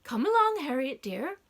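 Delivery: put-on lilting Come along, like coaxing a child; sing-song call. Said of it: "in a sing-song voice".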